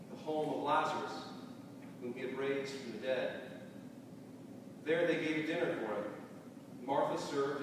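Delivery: measured, reverent Bible reading with pauses between phrases; slow scripture reading. Real, not acted. Pastor reads for listeners imagining the text, slow scripture reading. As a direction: read scripture aloud unhurriedly, letting each phrase settle. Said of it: "read the text a little slowly".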